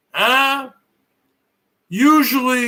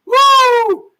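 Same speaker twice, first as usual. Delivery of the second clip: high, loud whoop to the ladies; whooping at the ladies out there; excited woo; 13 semitones higher, 6 dB louder than usual. Real, not acted. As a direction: let out a flirty whoop. Calling out to the ladies.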